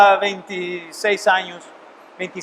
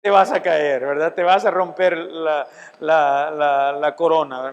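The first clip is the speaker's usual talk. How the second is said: grandma's warning; 4 semitones lower than usual. Retold or imitated. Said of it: "como cuando su abuelita le decía".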